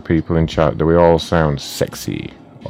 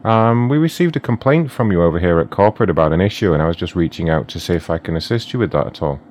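corporate phone rep. Acted. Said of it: "pretending to be DoorDash corporate office".

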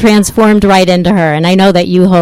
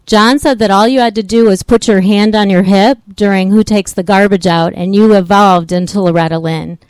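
louder, for a bad phone line; speaking louder; 2 semitones higher than usual. Real, not acted. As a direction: push the voice so she hears. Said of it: "I'll try to speak a little bit louder".

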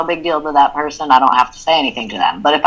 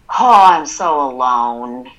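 self-pitying; 3 semitones lower, slower than usual. Shown as a demonstration. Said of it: "that's a very different".

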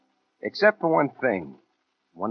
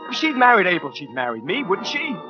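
high-pitched, insistent rhetorical questions; agitated self-justification; 13 semitones higher than usual. Acted. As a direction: argue yourself into it, voice pitched way up. Argues himself into it, agitated.

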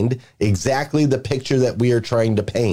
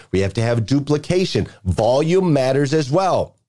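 ordinary talk, nothing marked

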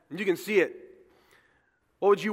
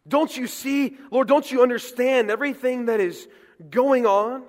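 loud, high, pleading and outraged; Jonah's angry plea; 4 semitones higher, 5 dB louder than usual. Retold or imitated. Jonah pleading with God in outrage, loud and high. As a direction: rail at God like furious Jonah.

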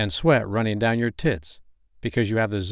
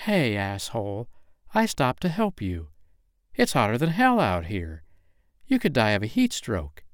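indignant scolding; 2 semitones higher than usual. Acted. Biker woman scolds the stranger who refused her help, indignant. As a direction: tell off the rude stranger, voice climbing.

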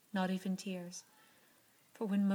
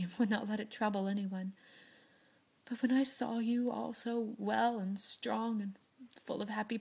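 lightly voiced sick girl, partly whispered; a gentle, weary confession; frail Beth; 3 semitones higher than usual. Beth's confession in the story.

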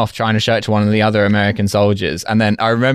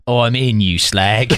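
mock British hacker quote; slower than usual. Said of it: "as hackers always say".

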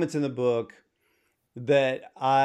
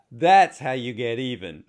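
laughing through a retold thought; 2 semitones lower, 4 dB louder than usual. Host retelling his reaction to a singer, laughing. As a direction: chuckle the words out, louder. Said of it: "And I thought".

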